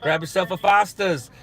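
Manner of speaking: mock Aussie slang. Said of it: "I know it's rude to say".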